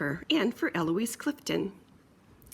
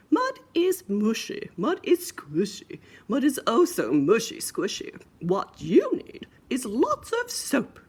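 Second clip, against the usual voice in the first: mock mother's lesson; 4 semitones higher than usual. Mommy pig continues.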